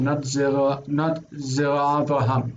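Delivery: not said with the stress on the word not, with Zera Avraham unreduced; a contrast stress on not; wrong version, stress on NOT. Shown as a demonstration. Teacher showing the student which form is wrong, with stress on not. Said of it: "their accent stays".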